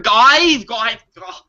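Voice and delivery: high, lilting odd voice; weird lifted voice. Shown as a demonstration. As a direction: lift the voice and make it sound weird. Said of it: "a really weird lift to your voice".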